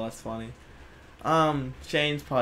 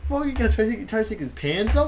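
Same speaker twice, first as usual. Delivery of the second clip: high, loud mock protest; hammed-up, pitched-up exclamation; retold outburst; 9 semitones higher, 5 dB louder than usual. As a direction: imitate a drunk friend's outburst. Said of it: "He's like".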